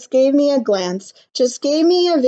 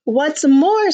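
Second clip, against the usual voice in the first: sharp higher snap; snapping; 4 semitones higher, 3 dB louder than usual. Acted. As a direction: snap it back. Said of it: "snapped the Lorax".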